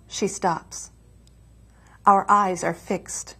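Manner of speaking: slow, measured poetry reading; poem recitation. Acted. Poet reading a sonnet to the host, measured recitation. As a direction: recite the poem slowly, pausing at the line breaks. Reads own sonnet aloud.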